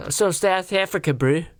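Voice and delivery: lightly put-on South African accent; rough South African imitation; mock South African accent. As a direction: mimic South African vowels mockingly. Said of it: "South African accent".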